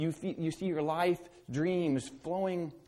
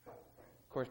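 whispered aside; 3 semitones lower, 10 dB quieter than usual. Acted. Whispered aside after loud bit.

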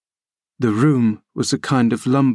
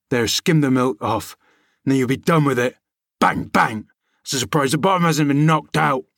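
put-on higher, scolding rustic old manservant; grumbling old servant Joseph; 4 semitones higher than usual. A narrator's reading. Old servant scolding the boy, grumbling rustic voice. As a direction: nag the boy about his lumpy porridge.

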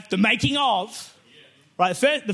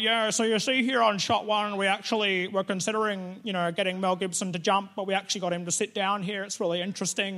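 a hint of a dull director, softer; droning director; 4 dB quieter than usual. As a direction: mumble on like a bored commentary track. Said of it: "the director's like".

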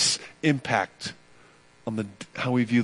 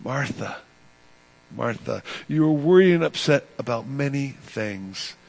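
tender. Retold or imitated. Jesus gently correcting a busy Martha, tender. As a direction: say her name like a kind friend would. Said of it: "I think he says it very tenderly".

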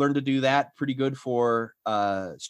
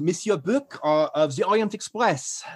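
put-on lightly French-accented Belgian character; French-tinged Belgian voice; 5 semitones higher than usual. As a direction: slip into a French Belgian stage dialect. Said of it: "and I was French Belgian".

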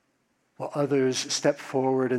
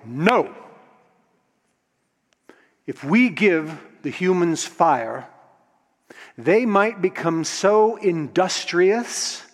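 stern Zeus refusing; 3 dB louder than usual. Acted. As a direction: lay down the law as king of the gods. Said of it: "Zeus was like".

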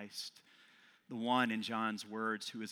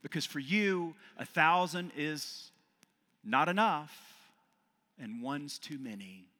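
firm, slightly raised counselor voice; rehab counselor; 4 semitones higher, 3 dB louder than usual. Acted. Rehab counselor telling a patient why, firm. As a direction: plainly reason with a struggling patient. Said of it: "a counselor at a intake rehab facility".

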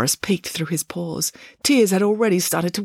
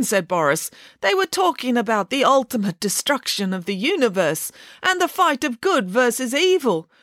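high, lightly voiced bear, hurt; a sensitive bear explains himself, aggrieved; bear character; 6 semitones higher than usual. Bear complaining to the family about the dull scene.

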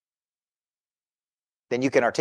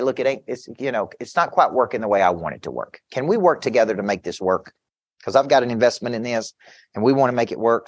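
lower, measured, reasonable appeal; calm request; 3 semitones lower than usual. Acted. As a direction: reason with them calmly, keeping the voice down. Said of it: "I just calmly say".

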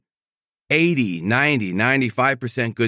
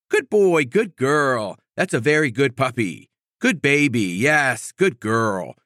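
praising the puppy; slower than usual. Shown as a demonstration. Trainer rewarding a puppy for doing right, gushing praise. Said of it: "rewarding them".

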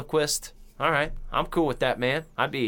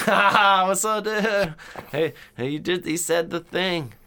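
high, louder giddy greeting; excited fan; 8 semitones higher, 5 dB louder than usual. Retold or imitated. Greeting the creepy dummy with starstruck high excitement.

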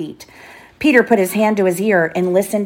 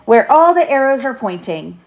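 higher, lively answer; lightly voiced confident boy leader; Peter calling out; 5 semitones higher, 3 dB louder than usual. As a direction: call the answer out to the children. Peter calls answer to children.

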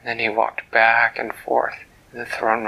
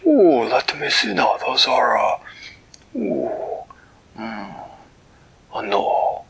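puzzled Flibbertigibbet; slower than usual. Acted. Flibbertigibbet puzzles over fish.

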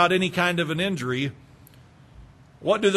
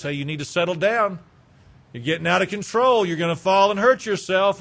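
firm parental warning, building higher and louder; parent warning kids; 4 semitones higher, 3 dB louder than usual. Retold or imitated. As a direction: scold kids jumping on the bed. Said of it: "You say something like this".

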